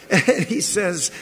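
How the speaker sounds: a small laugh through the words; amused chuckle; chuckling. Real, not acted. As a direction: laugh lightly as you set up the line. Laughing at the scared disciples.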